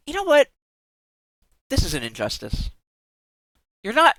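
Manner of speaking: usual speaking voice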